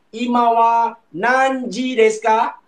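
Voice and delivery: imawa nanji desu ka said slowly and evenly; slow model question. Shown as a demonstration. Teacher asks class the time, slowly. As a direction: pose the Japanese question slowly for learners.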